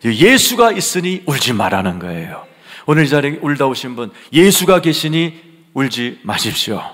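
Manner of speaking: loud, forceful exhortation; full-force preaching. Real, not acted. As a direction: proclaim comfort at full voice. (힘차게 외치는 설교)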